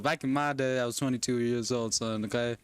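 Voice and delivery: put-on Texan parent, a bit livelier; Texan accent. Parent telling son of younger days, Texan accent. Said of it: "pretend I have a Texan accent".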